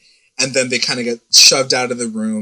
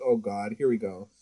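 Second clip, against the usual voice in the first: softer, weary groan of a fan; weary aside; 3 semitones lower, 10 dB quieter than usual. Retold or imitated. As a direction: mutter it, tired of the plot. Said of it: "I'm like".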